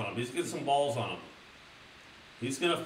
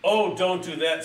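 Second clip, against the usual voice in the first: little goat pleading; 5 semitones higher, 7 dB louder than usual. Acted. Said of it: "said the little Bill Goat".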